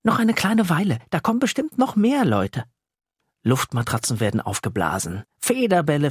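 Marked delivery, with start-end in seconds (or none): 0.0-2.6 put-on a touch higher stalling boy; buy time, a bit brighter; lightly voiced boy. Yassin stalls the eager little monster, lightly voiced.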